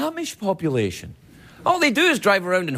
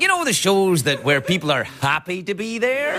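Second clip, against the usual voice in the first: slowing West Country English reply; west coast of England accent; 3 semitones higher than usual. Pretend. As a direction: answer in a put-on West of England lilt. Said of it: "strange west coast of England accent".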